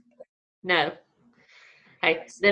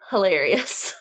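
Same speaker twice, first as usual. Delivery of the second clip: a word squeezed out through tears of laughter; barely holding it together, laughing; laugh-crying. Real, not acted. Telling viewers the moment was hilarious, crying with laughter. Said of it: "I'm crying, y'all".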